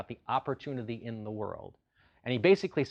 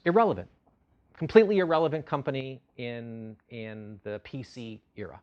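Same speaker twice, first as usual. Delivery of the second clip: scornful verdict; 7 dB louder than usual. Retold or imitated. Mocking 1993 verdict on IBM.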